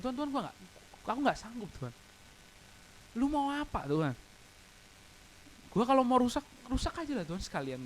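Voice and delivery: high, pleading, broken voice; begging God in desperation; despairing prayer. Retold or imitated. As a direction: at the end of his rope, crying out. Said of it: "Nangis, men".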